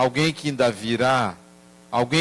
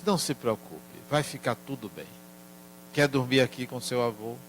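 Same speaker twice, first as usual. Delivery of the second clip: softer, tender reassurance; soft comforting; 8 dB quieter, faster than usual. Retold or imitated. Grandfather soothes his crying grandson at bedtime, softly. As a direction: hush him gently toward sleep.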